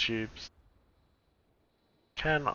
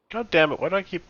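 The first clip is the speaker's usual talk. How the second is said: loud frustrated curse, higher pitch; angry outburst; 8 semitones higher, 10 dB louder, faster than usual. Real, not acted. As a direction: snap it out in real annoyance. Frustrated at wrong radio net.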